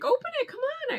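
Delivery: high-pitched egging on; eager friend prodding, imitated high; imitated urging. Voicing friend urging her on.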